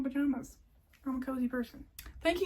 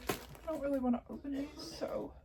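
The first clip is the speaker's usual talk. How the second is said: whispering; 2 semitones higher, 8 dB quieter than usual. Real, not acted. Aside about not opening packs.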